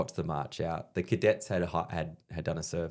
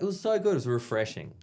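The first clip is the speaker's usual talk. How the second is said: gushing praise; 6 semitones higher than usual. Retold or imitated. Everyone praises the set.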